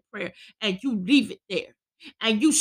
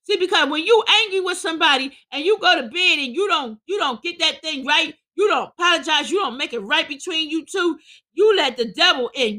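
higher-pitched, insistent preaching; 5 semitones higher, 3 dB louder than usual. Real, not acted. Preacher warning those who go to bed angry, insistent preaching. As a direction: drive each clause home like a preacher.

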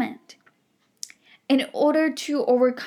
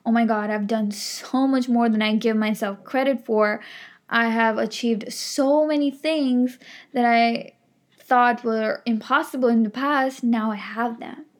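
grateful inner voice. Retold or imitated. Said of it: "when you come from the energy of gratitude".

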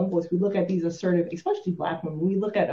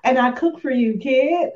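much higher, louder exasperated mom; exasperated rant; 7 semitones higher, 7 dB louder than usual. Retold or imitated. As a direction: rant at an ungrateful kid. Exasperated mom ranting at kid.

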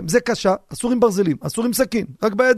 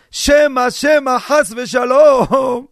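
slow alarmed shout; 4 dB louder, much slower than usual. Acted. Preaching warning to listeners.

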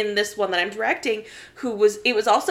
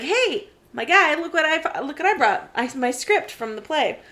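excited greeting; 5 semitones higher than usual. Retold or imitated. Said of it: "and I was like".

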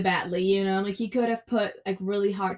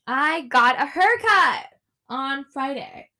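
excited; 4 semitones higher, 5 dB louder than usual. Real, not acted. Excited sudden remembered news.

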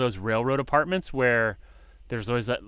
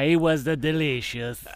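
a light mock German accent, tongue in cheek; playful fake German accent on the dinner brag; 3 semitones higher than usual. Bragging about his dinner to friends, in a light mock German accent. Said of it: "that's my German accent".

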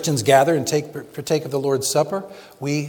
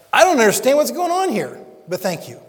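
bewildered prayer; 7 semitones higher than usual. Acted. Believer praying to God in confusion, high then hushed. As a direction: cry out confused, then settle.

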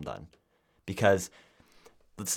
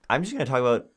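real slip into a higher, cracked note; 4 semitones higher, 5 dB louder, faster than usual. Real, not acted. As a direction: voice cracking mid-phrase. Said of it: "I think there's a voice crack there".

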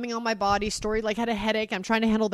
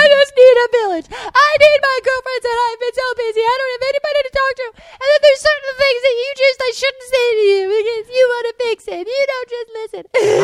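much higher, louder crying plea; tearful plea; 13 dB louder than usual. Retold or imitated. Retelling crying to husband about needing friends. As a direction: wail it out, desperate. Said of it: "I was like".

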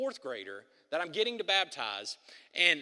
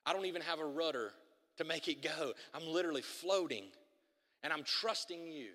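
quoted prayer; 3 semitones lower than usual. Retold or imitated. Pastor voices his morning prayer.

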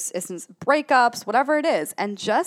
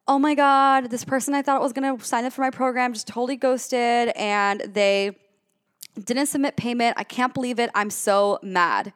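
venting client; 3 semitones higher than usual. Retold or imitated. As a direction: play a client ranting about being ghosted. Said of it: "if your client says".

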